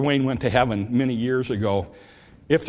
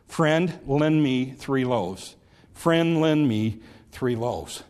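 humble plea; much slower than usual. Acted. Model prayer, few words.

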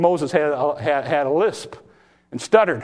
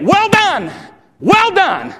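God's voice; 12 semitones higher, 5 dB louder, much slower than usual. Acted. God's approval voiced in sermon.

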